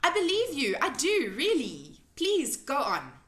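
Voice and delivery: high, loud earnest plea; pleading cry. A narrator's reading. Sophie pleading with the offended giant, high and urgent. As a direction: beg him to believe her. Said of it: "Sophie cried".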